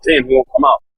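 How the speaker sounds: high, exasperated mock complaint; exasperated groan. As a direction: act out the team's fed-up sigh. Team frustrated, suspect won't leave.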